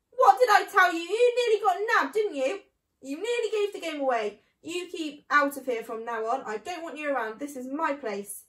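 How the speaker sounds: high, loud, shrill-edged scolding; shrieking. A narrator's reading. Rat scolding Mr Fox from the shelf, loud high shriek. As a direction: screech down from the shelf. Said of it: "Rat stood high on the shelf and shrieked".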